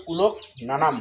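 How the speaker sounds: কুলক নানাম as "kulok, na-nam"; correct pronunciation demo. Shown as a demonstration. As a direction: separate কুলক from নানাম clearly. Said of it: "এখানে উচ্চারণ হবে".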